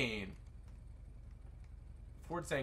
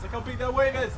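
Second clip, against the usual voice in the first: amazed; 13 semitones higher, 8 dB louder than usual. Real, not acted. Amazed at huge wave.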